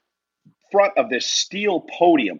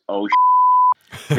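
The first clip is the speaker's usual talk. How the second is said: sudden high yelp of alarm; shocked curse; 3 dB louder than usual. Retold or imitated. Realizing in the ring it's real, a shocked high curse. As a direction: blurt it out in pure shock. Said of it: "the first thing I said is".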